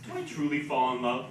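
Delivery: wry spoken-word reading; comic poem read with deliberate pauses; poetry recital. Acted. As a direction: deliver the poem in measured phrases, letting endings drop.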